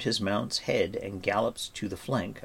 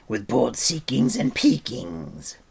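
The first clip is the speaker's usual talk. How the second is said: higher, louder, slow creature voice; Gurki, eager; 4 semitones higher, 5 dB louder, slower than usual. Acted. Gurki offers to search for pig, eager. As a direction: stretch the odd words out eagerly.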